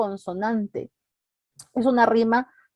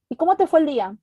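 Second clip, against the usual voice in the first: small talk; 6 semitones higher, faster than usual. Acted. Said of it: "La típica de".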